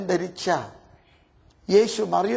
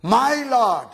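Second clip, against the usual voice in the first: fervent cry; 3 semitones higher, 4 dB louder than usual. Acted. Mary's reply, louder.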